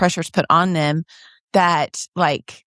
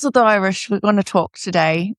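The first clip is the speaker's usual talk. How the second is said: bad Irish accent. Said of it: "that was really bad".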